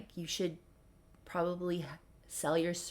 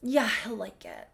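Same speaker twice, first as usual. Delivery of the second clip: deflated whisper; 3 semitones higher, 3 dB louder than usual. Retold or imitated. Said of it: "Tyler's mood shifts".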